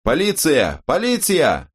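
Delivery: high, panicked cries; frightened shouts. A narrator's reading. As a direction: shout in fear for the police. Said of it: "испуганные выкрики". (испуганные выкрики)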